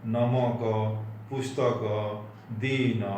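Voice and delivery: नमक, पुस्तक, दिन with the final अ fully voiced; final अ drawn out. Shown as a demonstration. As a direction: hold the last vowel of नमक, पुस्तक, दिन. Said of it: "में ज़्यादा समय लगेगा". (नमक, पुस्तक, दिन का अंतिम अ लंबा बोलें)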